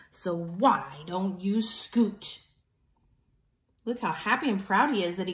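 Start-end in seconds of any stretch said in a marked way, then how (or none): 0.1-2.4 slow taunt. Acted. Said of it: "shouted Pig".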